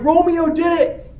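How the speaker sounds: high, loud mock accusation; crowd's accusing cry. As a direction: call out like a tattling crowd.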